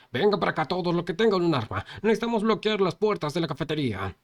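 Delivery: high, loud rallying call; commanding shout. Acted. Leader calling armed people to block doors, commanding shout. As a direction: order everyone with weapons over. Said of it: "le gritó también".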